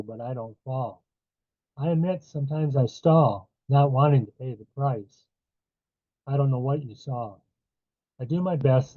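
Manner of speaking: measured verse reading with falling line ends; poem reading. A narrator's reading. Poet to audience about living with Parkinson's, measured poem reading. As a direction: read your poem in firm rhythmic lines, letting each refrain drop. Reads own poem aloud.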